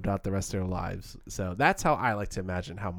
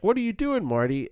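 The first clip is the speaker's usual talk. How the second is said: acted questioning friend; 9 semitones higher than usual. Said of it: "Ange follows him in, like".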